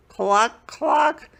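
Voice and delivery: high, loud hen cluck. A narrator's reading. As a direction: cluck like a chicken. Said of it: "said the black hen".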